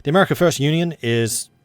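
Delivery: put-on American accent that starts to slip; slipping American accent. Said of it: "I am completely losing the accent".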